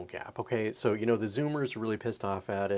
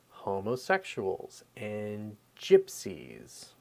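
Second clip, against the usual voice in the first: whisper; 2 semitones lower, much slower than usual. Real, not acted. Aside while listing victims.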